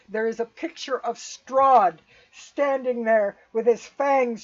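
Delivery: emphatic battle narration with loud punched words; game master's scene setting. Acted. Game master describing a psychic duel to player, emphatic storytelling. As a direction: build the vision forcefully, leaning on key words.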